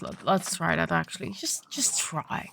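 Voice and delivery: soft whisper to yourself. Real, not acted. Muttering to himself while trying.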